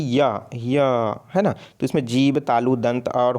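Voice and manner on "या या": या held long, twice, with a gap between; pronunciation demo. Shown as a demonstration. Teacher asking students to try pronouncing या, drawn out. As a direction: sound out या slowly as a lone syllable. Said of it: "अब उच्चारण करके देखिए".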